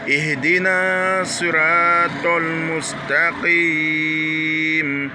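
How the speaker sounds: drawn-out Fatiha verses; slow recitation. Shown as a demonstration. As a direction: recite slowly and evenly.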